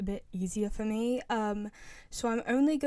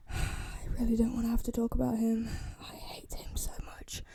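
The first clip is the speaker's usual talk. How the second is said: sigh, then let it sink to a whisper; reluctant distaste. Real, not acted. YouTuber dreading talk of a hated character, reluctant.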